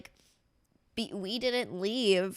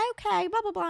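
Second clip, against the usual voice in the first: mock Southern accent; 10 semitones higher than usual. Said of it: "she just used her accent".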